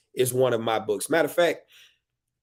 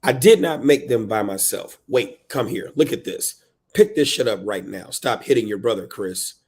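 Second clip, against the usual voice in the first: dramatic reading of a scolding parent; harried parent reading; 6 dB louder than usual. Acted. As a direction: punch the openings, tail off on the name. Performs book's harried parent.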